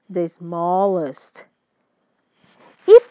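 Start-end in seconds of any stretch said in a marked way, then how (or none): 0.1-1.5 The smallest said slowly; slow model phrase. Shown as a demonstration. Teacher reading the new form slowly to learners. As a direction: draw The smallest out for students. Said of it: "eu vou colocar S T".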